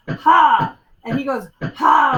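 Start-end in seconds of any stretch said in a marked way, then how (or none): 0.1-0.8 loud sumo battle cry; sumo wrestler yell. Acted. GM voicing the player's charge, loud sumo yell. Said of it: "run up there like a sumo wrestler almost and go". 1.6-2.2 loud bear-like shout; big bear roar. Acted. GM voicing the rival grabbing back, loud bear-like shout. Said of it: "like a big bear".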